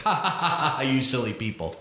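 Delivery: light laugh, then a teasing scolding tone; mock laugh. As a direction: chuckle at silly people, half amused. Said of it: "he's like".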